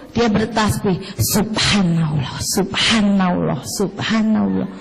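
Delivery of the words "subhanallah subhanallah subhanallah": slow low quacking subhanallah; duck voice. Retold or imitated. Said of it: "Entok jenengan krungu meng". (suara entok yang pelan)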